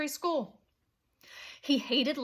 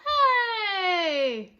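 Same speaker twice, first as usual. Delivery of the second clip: higher, louder call from the stands; fan shout; 6 semitones higher, 4 dB louder than usual. A narrator's reading. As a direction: yell across the bleachers. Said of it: "shouted a fan in the bleachers".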